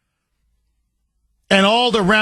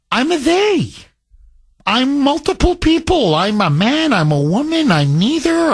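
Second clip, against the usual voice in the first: lightly raised, mock-earnest declaration; a hint of a put-on higher voice; changed voice; 6 semitones higher than usual. Host pretends to be Jeff declaring non-binary, lightly higher. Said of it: "I start to change my voice".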